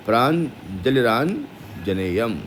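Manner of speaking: प्रांजलिरान जनेयम recited syllable by syllable; slow careful recitation. Shown as a demonstration. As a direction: chant प्रांजलिरान जनेयम slowly as a demo. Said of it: "तो क्या हो जाएगा". (धीमा शुद्ध उच्चारण)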